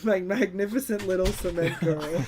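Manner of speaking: quoting through a laugh; laughing mock quote. Quoting Sandman's line about his daughter, laughing.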